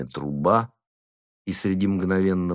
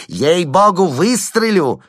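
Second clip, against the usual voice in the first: high, loud squealing threat; panicked squealing oath; squealed threat; 9 semitones higher, 7 dB louder, slower than usual. A narrator's reading. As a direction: shriek the threat. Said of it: "завизжал он".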